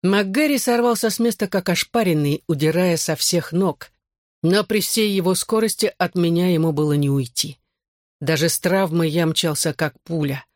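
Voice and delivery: ordinary delivery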